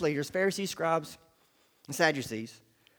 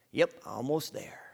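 whispered, smug little aside; mock whisper; 4 semitones lower, 4 dB quieter than usual. The preacher mimics a smug believer in a mock whisper. Mocking the self-righteous believer.

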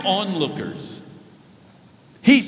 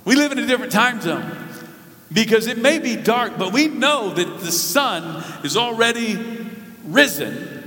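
preaching climax; 4 semitones higher than usual. Real, not acted. Rising sermon climax.

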